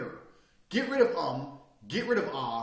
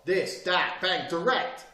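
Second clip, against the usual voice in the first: blunt direct demo; 2 semitones higher, 5 dB louder, much slower than usual. Shown as a demonstration. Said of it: "Sit there and go".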